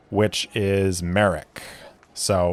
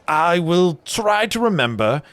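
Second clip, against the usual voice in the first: friendly brewer; 3 semitones higher than usual. Acted. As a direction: promise to try, a little unsure. Brewer struggles with new name.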